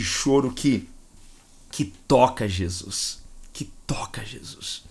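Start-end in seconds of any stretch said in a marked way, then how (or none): 3.5-4.8 whisper. Real, not acted. Repeats phrase as a hush.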